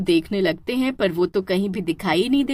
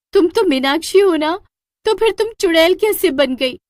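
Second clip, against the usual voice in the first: much higher, bewildered asking; astonished question; 9 semitones higher, 4 dB louder than usual. Acted. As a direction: ask the witch, amazed. Asks witch in amazement.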